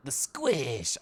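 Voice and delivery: "squish" slowly enunciated and drawn out; Setsu's enunciation. Retold or imitated. Streamer imitating a friend's word, drawn-out "squish". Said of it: "Setsu enunciates, like".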